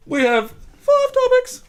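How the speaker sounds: high, slow showman call; hammed-up announcing. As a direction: announce it like a ringmaster. Host hams up announcement.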